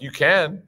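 imply an unspoken "but" after CAN; hinting reservation. Retold or imitated. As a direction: say CAN high, as if a catch follows. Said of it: "Why do you say it like that".

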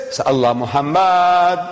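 slow reading with a long held final vowel; sing-song, drawn-out answer; reading aloud. Retold or imitated. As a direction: stretch out the name as if reading it off. Acts everyone reading the calligraphy aloud.

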